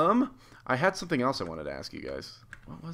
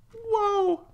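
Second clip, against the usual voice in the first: laughing surprise; 7 dB louder, much slower than usual. Real, not acted. Gamer startled by a kill, squealing with laughter.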